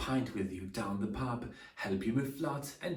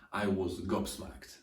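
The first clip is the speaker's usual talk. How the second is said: 1 slow model for repeating; 4 semitones lower than usual. Shown as a demonstration. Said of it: "Say after me".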